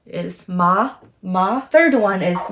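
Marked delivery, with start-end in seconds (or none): 0.5-1.6 MA sliding upward; rising pitch on MA, like a question; second tone. Shown as a demonstration. Teacher showing the tone going up, rising MA. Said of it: "the second tone is going up".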